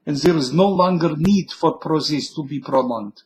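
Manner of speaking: a hint of Russian accent, solemn; speech read like a Cold War Russian; mild mock Russian accent. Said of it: "with a Russian accent".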